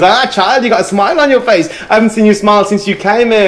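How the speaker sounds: put-on high, loud old mother-in-law, teasing. Storyteller voicing the mother-in-law catching the daughter-in-law smiling, high and loud. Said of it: "She goes".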